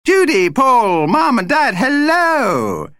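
high, loud, delighted call; hailing. A narrator's reading. Tiny vampire spots the family, hailing them. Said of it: "a familiar voice hailed them".

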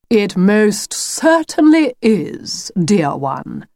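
lightly voiced theatrical wolf; slow, drawn-out wolf reply; wolf character. The wolf answers Lucy from the shadows, slow and lightly theatrical.

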